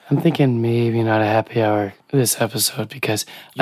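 hoarse, barely-there voice; talking with almost no voice left; lost voice. Real, not acted. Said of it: "have no voice".

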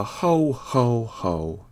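a hearty Santa laugh-call that trails away; Santa bellowing. A narrator's reading. Santa greets the arriving kitten with a jolly bellow. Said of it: "Santa Claus bellowing out".

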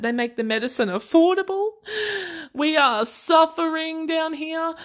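mock outrage at a terrible fate; mock oppressed. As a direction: play the suffering victim, stretching the key words. Sarcastic mock plea about being oppressed.

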